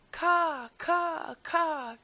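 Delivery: high, loud crow caws; cawing crows. A narrator's reading. Crows still cawing at the king's window, high and loud. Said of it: "continued the crows".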